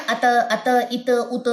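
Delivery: ات with breath released after the ت; breathy t demo. Shown as a demonstration. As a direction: let air flow after ات. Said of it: "اگر آپ اس کو پڑھیں نا". (ات میں سانس جاری، ہمس)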